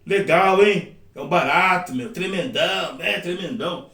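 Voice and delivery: lightly voiced old man, slow and drawn out; a hint of an old-timer savoring outdated slang. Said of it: "o velhinho fala". (velhinho levemente imitado, devagar)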